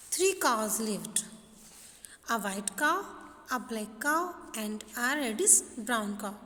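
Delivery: slow, deliberate textbook story reading; measured classroom reading with slow, separated phrases; lesson read-aloud. Acted.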